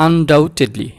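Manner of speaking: Undoubtedly said slowly in four syllables; broken into syllables. Shown as a demonstration. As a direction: split Undoubtedly as un-dou-ted-ly, no B. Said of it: "চারটা সিলেবলে ভেঙে উচ্চারণ". (Undoubtedly চার সিলেবলে ভেঙে ধীরে উচ্চারণ)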